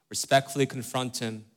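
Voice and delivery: "Respectfully" carrying the accent of the phrase; stress on Respectfully. Real, not acted. Preacher repeating advice to wives, stress on "Respectfully". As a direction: put the weight on "Respectfully". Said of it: "Accent on respectfully".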